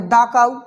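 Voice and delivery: "दा" with ah before "काऊ"; "दा" before consonant. Shown as a demonstration. Teacher demonstrating the article before cow, "दा" with ah. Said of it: "अब इसको क्या पढ़ेंगे".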